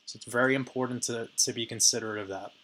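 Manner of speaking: hoarse, worn-out voice; raspy from talking all week. Real, not acted. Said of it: "excuse me for my, uh, raspy voice today".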